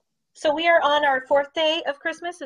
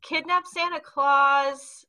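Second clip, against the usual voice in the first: slow, deliberate; much slower than usual. Shown as a demonstration. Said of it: "Okay, a k".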